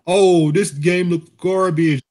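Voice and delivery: slow, dismissive mock voice; mocking critic. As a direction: sneer it like a critic.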